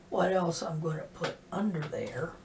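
stuffy nose voice; blocked nose. Real, not acted. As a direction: talk through a blocked nose. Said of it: "my nose is still being a problem".

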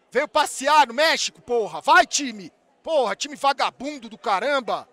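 loud, exasperated scolding; real heated shouting; angry fan rant. Real, not acted. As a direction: berate your lazy team. Scolding the team.

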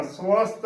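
ਸਵਸਥ said su-ast, short u after the first ਸ; correct pronunciation. Shown as a demonstration. Teacher models the word for learners, ਸਵਸਥ as su-ast. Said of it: "ਉਚਾਰਨ ਕਰਨਾ ਹੈ".

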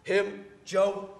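loud, high outburst; outraged yell. Acted. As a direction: blow up in disbelief. Outraged at being cut off.

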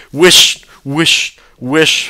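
high, repeated testy shushing; irritable, rising hush. A narrator's reading. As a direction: hush the child impatiently, word by word. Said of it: "father said testily".

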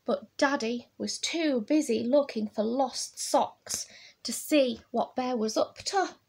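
put-on animated read-aloud for children; picture-book storytelling. A narrator's reading. Reading of Bear's escape to children, animated storytelling. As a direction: build to a lively lift at the end.

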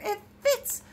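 high, slow, drawn-out delight. A narrator's reading. Bear sees the hat fit the moon, delighted.

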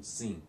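sim with the M said as a nasal vowel. Shown as a demonstration. Teacher showing Tetum learners the Portuguese sound, nasal sim. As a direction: say sim through the nose, no closed M at the end. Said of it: "but it's nasal".

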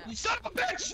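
high, loud mock outrage; loud outburst. Real, not acted. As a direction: yell it in playful outrage. Teammate fails, outburst.

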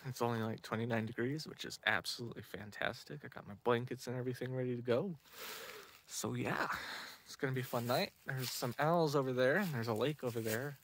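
soft night-time murmur; quiet. Real, not acted. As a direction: speak low at the campsite.

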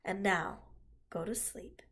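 reassuring. Acted. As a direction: lull him toward sleep. Charlotte comforts Wilbur.

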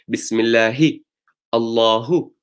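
"Bismillahi" and "Allahu" with a light, unstressed ha from the bottom of the throat; soft throat ha. Shown as a demonstration. Teacher showing the bottom-throat ha, unemphasised. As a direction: say "Allahu" with an easy breathy h, no push. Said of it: "That is the ha from the bottom part of the throat".

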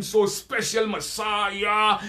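drawn-out, mock-awed Messiah; mocking reverence. Debater mimicking believers who revere the title, mocking reverence. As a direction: stretch it out in mock awe. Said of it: "You know how they call the Messiah".

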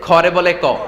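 aspirated "খ" becomes plain "ক"; KH turned into K. Shown as a demonstration. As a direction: drop the breath from "খ" to give "ক". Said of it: "কিশোরগঞ্জে".

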